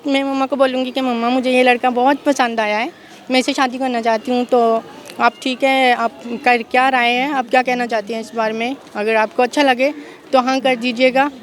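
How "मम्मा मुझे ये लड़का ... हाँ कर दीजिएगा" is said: coaxing daughter's voice; sweetly persuading mom as a girl; man doing a woman's voice. Pretend. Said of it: "लड़की की आवाज़ में मनाना है".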